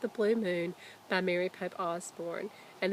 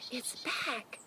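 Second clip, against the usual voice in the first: soft secretive whisper; 4 semitones higher, 7 dB quieter than usual. Acted. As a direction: share the secret under your breath. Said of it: "she whispered".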